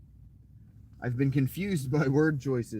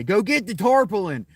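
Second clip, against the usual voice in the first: put-on a gruff old granddad giving an order, louder; 7 semitones higher, 6 dB louder than usual. Granddad telling grandkid to fetch it, raised voice. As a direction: bark it like a granddad sending you off. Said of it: "you definitely never hear a granddad say".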